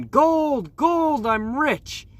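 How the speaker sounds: high, loud mock prospector cry; excited scream. A narrator's reading. Nevada Nick finds a golden rock, excited mock scream. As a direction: cry out like you struck it rich. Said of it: "he started screaming".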